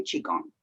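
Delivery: qigong said "chee-gong"; preferred pronunciation. Shown as a demonstration. Telling the host how she says it, qigong as "chee-gong". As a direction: say qigong with a soft ch, rising at the end. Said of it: "however, I say".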